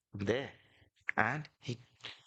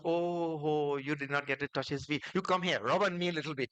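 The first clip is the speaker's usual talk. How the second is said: playful dust voices; 5 semitones higher than usual. Acted. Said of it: "So these fellows said".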